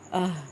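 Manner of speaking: low "آہ" from the bottom of the throat; short, low "آہ" placed deep in the throat. Shown as a demonstration. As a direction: end "آہ" on an h from the chest. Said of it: "حلق کے اینڈ سے".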